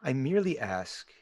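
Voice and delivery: lightly voiced hooded stranger, softened; deep gravelly voice. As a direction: ask quietly, with a touch of mystery. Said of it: "it's in this deep, gravelly voice".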